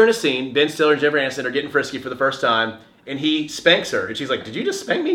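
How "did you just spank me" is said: high-pitched mock disbelief; startled question. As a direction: imitate her taken-aback question, pitched way up. Voicing the woman's startled question.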